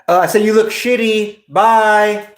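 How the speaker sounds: a scared guy backpedaling in a squeaky high voice; panicked high cover-up. Retold or imitated. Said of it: "he's like".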